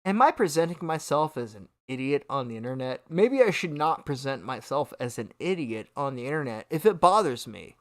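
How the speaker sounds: low, musing imagined self-talk; pondering aloud. Pretend. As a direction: act out thinking it over. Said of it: "maybe take a second to realize".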